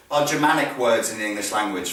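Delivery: ordinary talk, nothing marked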